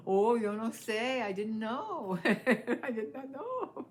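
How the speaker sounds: high, laughing, slow protest of innocence; laughing plea. Retold or imitated. Laughing as she pleads ignorance to the officer. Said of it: "I said".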